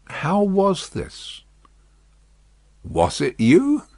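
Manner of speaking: slow, drawn-out wondering; each word pulled from far away; hushed old man asking slowly; slow bewildered question. A narrator's reading. Prisoner asks, slow.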